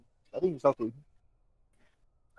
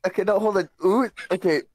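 exasperated questioning; 8 semitones higher than usual. Real, not acted. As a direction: demand an answer, baffled. Confused, pressing for an answer.

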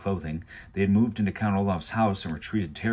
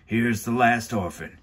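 henchman voice; 3 semitones higher, slower than usual. Acted. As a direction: hand over the prisoner like a gruff henchman. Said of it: "the hook-handed man said".

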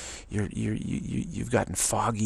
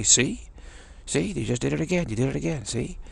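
high, pouncing mock accusation; mock gotcha; 5 semitones higher than usual. Imitating accusers who insist you did it again, mock triumphant. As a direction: pounce on it as if caught red-handed.

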